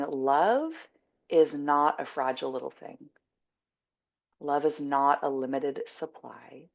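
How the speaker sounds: calm, spacious delivery with long pauses; guided meditation. Acted. Teacher offering love as limitless space, calm meditation voice. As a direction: let each phrase hang in the air.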